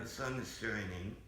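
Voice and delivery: flat mechanical robot voice. Pretend. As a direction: speak like a computer voice. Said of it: "sounds exactly like a robot".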